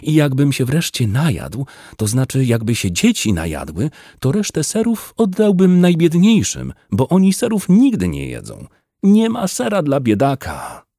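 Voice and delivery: high, overwrought plea; tearful. A narrator's reading. Wydra dreams of feeding the poorest, tearful. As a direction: pour it out, high and close to tears. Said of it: "tylko płakał".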